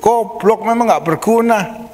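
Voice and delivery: high, slow mock berating of a child; hammed-up parent cursing a child; mock scolding. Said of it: "Wah, dimaki-maki". (omelan orang tua yang ditirukan, nada tinggi)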